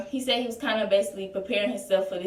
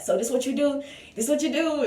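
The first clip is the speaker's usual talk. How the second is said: a touch of grandma's scolding, pitched higher; light imitation of a grandma snapping; mock snapping grandma; 5 semitones higher than usual. Grandma scolding her pregnant granddaughter, mildly imitated snap. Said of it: "She just snapping".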